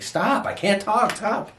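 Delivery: high, drawn-out pleading cry; imitated yelling. Husband re-enacts himself overwhelmed, high imitated yell. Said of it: "I'll even start yelling".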